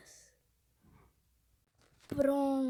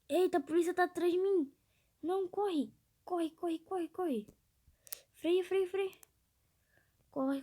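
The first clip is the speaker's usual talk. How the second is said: being chased; 3 semitones higher than usual. Real, not acted. Fugindo da polícia no jogo.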